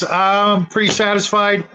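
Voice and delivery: ordinary talk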